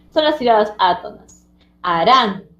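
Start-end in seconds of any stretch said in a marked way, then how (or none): 1.8-2.5 "Harán" with a firm push on RÁN; stress on last syllable. Shown as a demonstration. Teacher contrasting tonic and atonic syllables, "Harán" stressed on RÁN. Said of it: "Harán es la que tiene fuerza".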